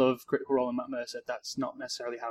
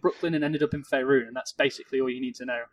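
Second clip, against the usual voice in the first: excited; 7 dB louder than usual. Real, not acted. Gleefully explaining Joey.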